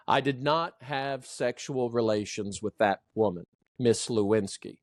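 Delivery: firm denial sinking low on "Lewinsky"; falling inflection. Shown as a demonstration. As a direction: declare it, pitch stepping down to "Lewinsky". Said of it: "That's falling inflection".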